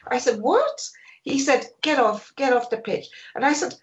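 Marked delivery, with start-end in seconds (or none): 0.4-0.9 much higher, incredulous question; mock-astonished squeak of protest; retold disbelief. Photographer answering the order to get off, acted disbelief. 1.8-3.1 retold order, pitched higher; Brian Clough. Manager repeating his order to photographer, lightly acted insistence. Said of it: "Brian Clough ordered me off the pitch".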